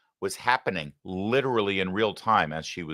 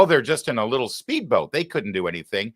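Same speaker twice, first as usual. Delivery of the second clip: mock minimizing; 3 semitones higher than usual. Mocks Clinton's speedboat argument.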